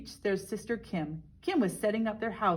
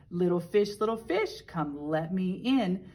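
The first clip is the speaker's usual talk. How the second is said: big bad shark. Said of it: "roared the shark".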